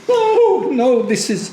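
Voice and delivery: high-pitched exclaimed protest; retold protest. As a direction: voice leaps up, then falls back. Retelling own protest at call.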